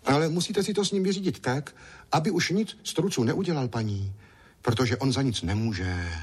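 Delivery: put-on high, eager small boy's voice; little boy Ondroušek. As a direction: play a chatty little boy.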